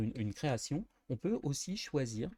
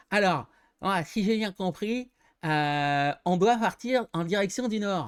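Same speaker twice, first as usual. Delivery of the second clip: higher, louder, mouth wide open; mouth propped open; 6 semitones higher, 7 dB louder than usual. Shown as a demonstration. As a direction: speak with the jaw dropped open. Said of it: "il parle toujours la bouche ouverte".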